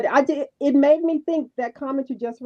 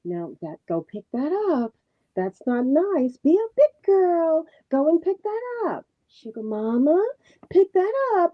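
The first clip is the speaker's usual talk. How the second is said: put-on slow, lightly higher coaxing of a toddler; soft mom voice; 5 semitones higher, slower than usual. Imitating Melody coaxing her baby softly. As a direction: coax a little one gently, a hint of mother. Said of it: "You know how she gets her soft voice".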